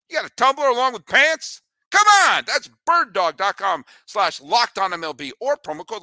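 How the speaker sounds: excited shout. Real, not acted. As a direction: hype up the free tumbler. Excited ad pitch climax.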